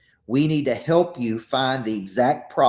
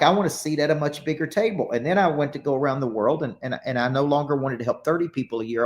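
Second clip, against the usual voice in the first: ordinary talk, nothing marked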